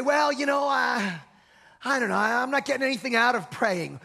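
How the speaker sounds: mock a half-hearted believer making excuses; reluctant excuse-maker.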